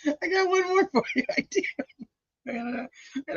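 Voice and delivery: very high, playful taunt; squeaky mischievous warning; teasing singsong. Acted. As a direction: dangle the next picture in a high singsong. Teasing another gross photo.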